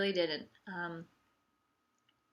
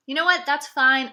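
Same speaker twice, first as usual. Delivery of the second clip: sarcastic; 4 semitones higher, 7 dB louder than usual. Acted. Forced calm self-talk, sarcastic.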